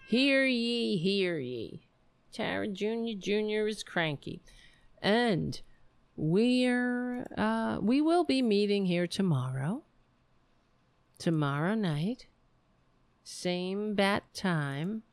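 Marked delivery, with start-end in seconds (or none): 0.1-1.8 town crier. Acted. 13.2-15.0 mock Batman sign-off.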